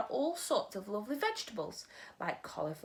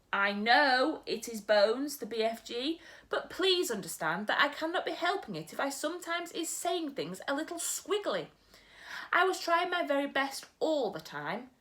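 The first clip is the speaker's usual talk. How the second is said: a gentle giant muddling his words; storyteller's BFG; 6 semitones higher than usual. Acted. Narrator voices the BFG.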